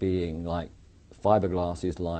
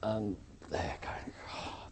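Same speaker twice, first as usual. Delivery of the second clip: voiceless huff of exasperation; imitated exasperated exhale; exasperated sigh; 12 dB quieter, slower than usual. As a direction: breathe out wearily, fed up with someone. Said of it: "exasperated with me".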